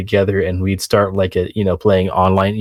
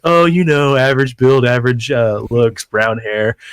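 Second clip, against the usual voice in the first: mock girly chat voice; fake teen girl; 3 semitones higher than usual. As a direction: pretend to be a teen girl describing herself. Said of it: "we'd get on there and be like".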